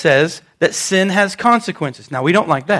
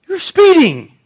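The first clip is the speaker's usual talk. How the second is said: officer's reply; 8 semitones higher, slower than usual. Retold or imitated. Voicing the officer.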